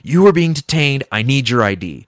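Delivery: retold insistent police demand, starting high; mock cop outburst, easing off; freaking-out cop. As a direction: imitate an agitated officer giving orders. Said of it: "he's, like, freaking out".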